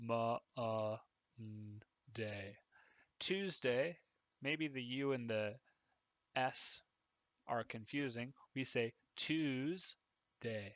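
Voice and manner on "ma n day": Monday said slowly, broken syllable by syllable. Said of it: "we say it like Monday".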